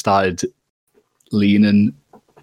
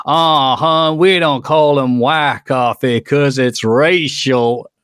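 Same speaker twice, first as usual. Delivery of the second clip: retold yell; 4 semitones higher, much slower than usual. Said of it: "this woman yelled".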